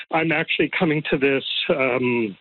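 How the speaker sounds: slightly winded, talking fast; catching breath between phrases. Real, not acted. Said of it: "sorry, I'm just a bit out of breath".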